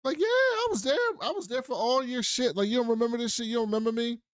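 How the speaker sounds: hammed-up old man calling out to Henry; imitating the old priest. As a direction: play the old priest reminding him he was there. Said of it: "the older dude at the table is like".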